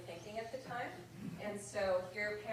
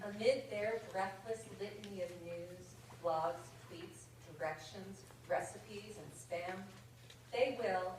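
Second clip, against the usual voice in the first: measured, rhythmic verse reading; comic poem read to an audience; slower than usual. Acted. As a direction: read the light verse line by line, savouring rhymes. Reads a comic poem aloud.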